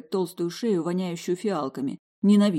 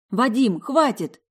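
high, loud begging cry; frightened plea; 6 semitones higher, 6 dB louder, slower than usual. Acted. Alisa to Vadim, loud frightened plea. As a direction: shout him down in fear.

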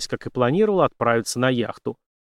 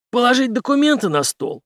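a high, louder mocking question; smirking; 12 semitones higher, 5 dB louder than usual. Henry mocks the general's threat, smirking. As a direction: toss it back with a smirk. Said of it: "с усмешкой спросил Генри".

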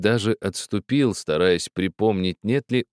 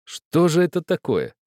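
amused disbelief; 8 semitones higher than usual. A narrator's reading. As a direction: still laughing at the absurdity. Host after bursting out laughing.

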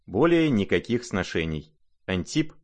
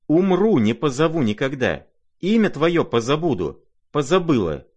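much higher, loud, enraged cry; furious vow; 7 semitones higher, 5 dB louder than usual. Acted. Lizaveta swearing to forget the prince, shouting in fury. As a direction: hurl the vow at him at full force.

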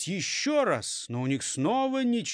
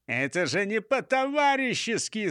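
mild high-pitched outcry; crying out; 6 semitones higher than usual. A narrator's reading. Chief protests at being abandoned, mildly shouted. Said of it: "закричал он".

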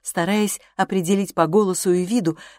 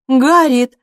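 «Гарриет!» cut off sharply, much louder; resolute cry; 7 semitones higher, 11 dB louder than usual. A narrator's reading. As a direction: stop her mid-sentence, firmly. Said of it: "вскричала Эмма с решимостью". (решительный громкий окрик «Гарриет!»)

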